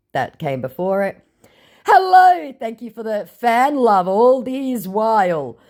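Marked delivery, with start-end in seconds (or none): 1.9-5.6 fake Hugh Jackman. Scammer posing as Hugh Jackman, high and sugary. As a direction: put on a fake celebrity charm. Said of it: "says Hugh Jackman".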